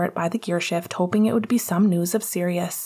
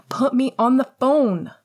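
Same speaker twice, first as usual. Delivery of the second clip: high, insistent repeated demand; Lily in the background; 6 semitones higher, 4 dB louder than usual. A narrator's reading. Lily demanding to talk to James, insistent. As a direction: insist on it, pitched up. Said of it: "came Lily's voice in the background".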